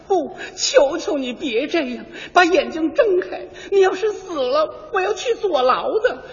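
crying plea. Acted. Dubbed heroine pleads over body.

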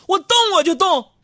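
high, loud mock-brave shouting; defiant yell. Husband daring his wife over the TV remote, high loud mock-brave yell. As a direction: shout it out like a tough guy daring her.

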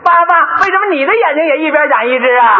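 a hint of a curious kid; son asking. Son questioning father about his eyes, lightly childlike. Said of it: "让孩子给问的".

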